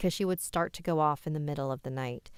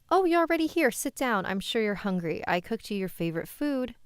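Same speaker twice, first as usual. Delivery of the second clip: cheerful mom; 5 semitones higher, 3 dB louder than usual. Acted. Mother welcomes daughter home.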